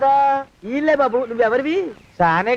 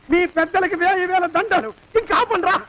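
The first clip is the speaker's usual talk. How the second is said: higher pitched panicky pleading; frightened; 5 semitones higher than usual. Acted. Master begs the servant to stop his hanging story, panicky. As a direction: beg them to stop, shaken.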